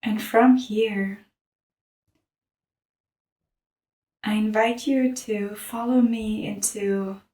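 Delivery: calm, measured meditation guide; unhurried mindfulness narration; guided meditation. Real, not acted. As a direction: lead them through an image, pausing long between phrases.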